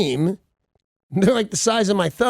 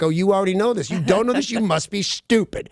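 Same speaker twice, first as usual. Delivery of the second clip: mock condescension; 4 semitones higher than usual. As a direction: imitate a know-it-all newscaster, pitched higher. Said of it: "Like they're saying it like".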